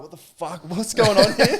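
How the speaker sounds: rising, disbelieving what the fuck, breaking into a laugh; shocked disbelief. Retold or imitated. Telling a mate about his captain's plan, laughing disbelief. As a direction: replay the moment it dawned on him, laughing.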